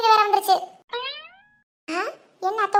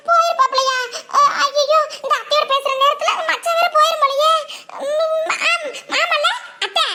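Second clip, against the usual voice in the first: higher, laughing fluster; comic panic; 5 semitones higher than usual. Acted. Panics husband may have left.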